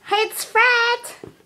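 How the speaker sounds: high squeaky balloon voice; helium voice. Real, not acted. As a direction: talk after sucking helium. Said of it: "my voice sounds so weird".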